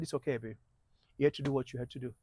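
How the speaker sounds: low, soft retold reassurance; calm. Husband to his apologizing wife, outwardly calm and quiet. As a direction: reassure her quietly, holding everything in. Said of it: "he was so calm".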